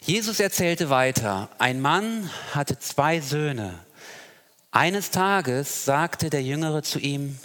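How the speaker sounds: solemn scripture reading. Acted. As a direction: read the passage with weight and care. Reads Bible text aloud.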